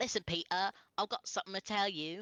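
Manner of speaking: over-the-top British accent. Speaker acts out a female character's line, exaggerated british accent. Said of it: "I'm gonna do a really exaggerated British accent for her".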